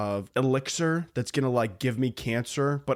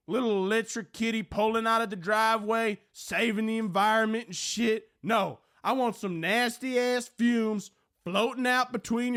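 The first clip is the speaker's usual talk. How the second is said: higher, sleazy drawling radio host voice; perverted Southern radio host; 7 semitones higher than usual. Acted. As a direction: schmooze the ladies like a creepy late-night DJ. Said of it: "my impression of a perverted Southern radio host".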